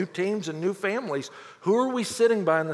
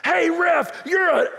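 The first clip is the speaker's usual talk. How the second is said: loud, higher mock yell at the referee; hockey dad hollering at the official; yelling at the ref; 10 semitones higher, 5 dB louder, slower than usual. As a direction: bellow across the rink at the ref. Alan cussing out the referee.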